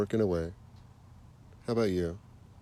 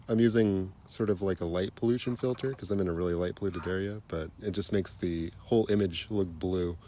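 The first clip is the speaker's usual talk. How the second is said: stuffy nose. Real, not acted. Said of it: "Sorry if I sound like I got stuffy nose".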